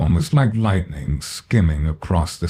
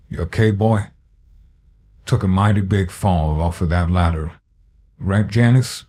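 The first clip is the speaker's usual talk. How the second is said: mock concern. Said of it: "His voice had flipped to that of genuine concern".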